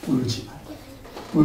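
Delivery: slow whispered comfort; hushed, slow whisper of Jesus. Acted. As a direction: breathe it gently to the grieving mother. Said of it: "예수님 뭐라고 말씀하십니까?".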